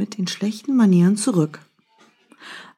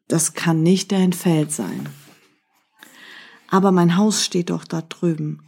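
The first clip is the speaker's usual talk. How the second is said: story narration. A narrator's reading. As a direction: tell the fable calmly, as if to a listener at bedtime. Reads a teaching tale aloud.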